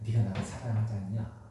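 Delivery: tender Jesus. Acted. Jesus restoring Peter gently.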